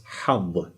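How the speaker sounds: hav with a breathy throat h; Arabic ha sound. Shown as a demonstration. Teacher demonstrating hav for students. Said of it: "a two-lettered word that uses this".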